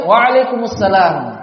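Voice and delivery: "Waalaikumsalam" pelan dan lengkap tiap suku kata; tidak terburu-buru. Shown as a demonstration. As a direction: jawab salam dengan tenang dan jelas. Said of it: "Jangan terburu-buru". (jawaban salam yang pelan dan utuh)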